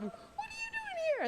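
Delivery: imitating dad's voice shooting way up high. Daughter imitates surprised dad, voice leaps high. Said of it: "his voice goes up".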